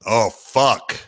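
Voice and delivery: mock despair of a gruff commentator, slow and drawn out; Tommy Heinsohn impression. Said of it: "I wonder if Tommy would have said".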